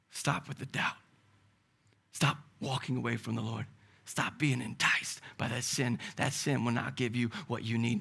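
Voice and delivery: calm the listener, softly; soft rebuke. Acted. Jesus gently rebukes the listener.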